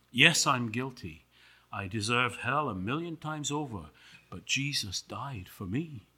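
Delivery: soft, sinking confession; humble Paul. Acted. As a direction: admit it quietly, then rest your case.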